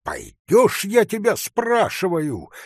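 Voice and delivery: high, loud demand; angry shout. A narrator's reading. Hunter demands the forester come, shouting angrily. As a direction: demand it furiously. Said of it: "крикнул охотник, злобно тараща глаза".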